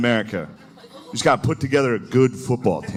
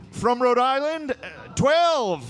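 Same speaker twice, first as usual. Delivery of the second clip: sheepish founding father; 10 semitones higher, slower than usual. Pretend. Founding father proposing consent age.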